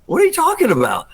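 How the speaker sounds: high, incredulous outburst; flipped out. Retold or imitated. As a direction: blurt it in total disbelief. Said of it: "I just totally flipped out".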